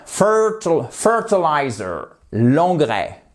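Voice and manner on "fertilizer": "Fertilizer", slow, the weight on "FER"; stress on first syllable. Shown as a demonstration. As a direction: hit "FER" in "Fertilizer" and let the rest fall. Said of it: "accent tonique sur la première syllabe". (accent tonique sur "FER" de "Fertilizer")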